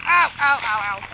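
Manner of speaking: breathless yelps in flying snow; sledding downhill. Real, not acted. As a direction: cry out as snow hits face. Snow spraying in face downhill.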